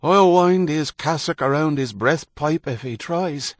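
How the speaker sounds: put-on high, loud cracked old threat; bitter strength. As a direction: snarl it like a fierce old man. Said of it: "the bitter strength in the old voice".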